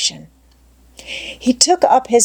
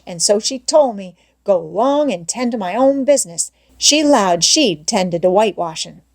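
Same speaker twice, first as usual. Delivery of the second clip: Jim in dialect; 2 semitones higher than usual. Acted. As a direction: plead you can't, Missus said no. Jim refuses, dialect dialogue.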